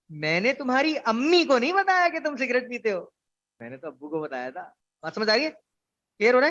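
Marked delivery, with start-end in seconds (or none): 0.1-4.7 अम्मी lifted and pressed, rest plain; stress on अम्मी. Shown as a demonstration. Teacher showing stress on अम्मी to the class. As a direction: hit अम्मी to point at the mother. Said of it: "अब मैं तीसरे लफ्ज पे आता हूँ".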